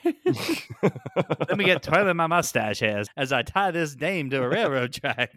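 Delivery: mock villain tying a dame to the tracks; melodrama villain. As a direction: gloat like a mustache-twirling villain. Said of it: "everyone just keeps talking like this now".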